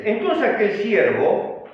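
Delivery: measured, emphatic Bible reading; scripture reading. A narrator's reading. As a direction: read the verse out firmly to the congregation. Reads the scripture verse aloud.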